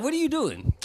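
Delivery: squeaky high-pitched mock question. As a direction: pipe it up like a nag.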